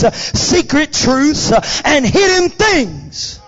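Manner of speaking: driving, emphatic preacher delivery; full-force preaching. Real, not acted. Preaches on tongues.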